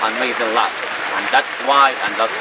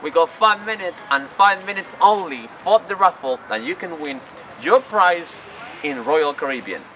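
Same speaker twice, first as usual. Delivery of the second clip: higher hammed-up crowd call; mock shout; 5 semitones higher than usual. Cruise staff calling passengers to the raffle, mock shout.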